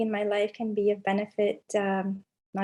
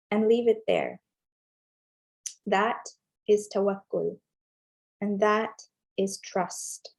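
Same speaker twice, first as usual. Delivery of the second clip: measured reflective reading with long pauses; devotional reading. Acted. Guiding listeners to reflect on a divine name, contemplative reading. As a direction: read it unhurried, phrase by phrase, letting each settle. Reads a contemplative passage aloud.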